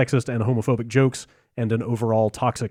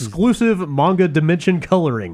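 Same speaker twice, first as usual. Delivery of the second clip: higher-pitched, playful salesman spiel; mock sales pitch; 4 semitones higher, 3 dB louder than usual. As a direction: pitch it like a salesman, lightly hammed-up. Host pitches a pricey collector's statue.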